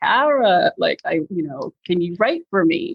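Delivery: put-on thick New Jersey accent. Speaker quotes a man who called up asking the speaker to write: thick New Jersey-Pennsylvania accent. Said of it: "he's got this thick New Jersey, Pennsylvania accent".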